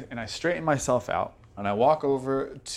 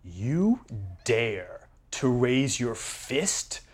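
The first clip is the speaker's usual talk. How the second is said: menacing; much slower than usual. Acted. Player character menaces NPC.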